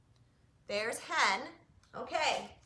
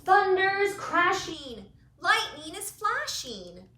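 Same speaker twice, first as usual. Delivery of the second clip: louder, higher, slow storm lines; dramatic storm; 6 semitones higher, 9 dB louder, slower than usual. A narrator's reading. Reading the storm to kids, dramatic and loud. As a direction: boom it out like thunder.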